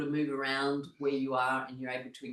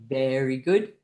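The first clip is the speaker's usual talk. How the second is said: chanted praise into a high whoop; group cheer; 5 semitones higher, 5 dB louder, much slower than usual. Shown as a demonstration. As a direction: chant evenly, then burst into yay. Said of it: "clapping hands and going".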